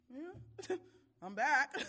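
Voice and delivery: high laughing yeah, I'm back; bubbling over with a laugh. Retold or imitated. Telling the church what she answers, laughing. Mimicking her reply with a laugh.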